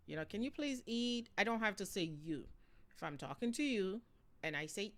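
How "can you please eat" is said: higher, slower pleading ask; overly polite asking to eat; polite request. Shown as a demonstration. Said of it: "I'm not saying".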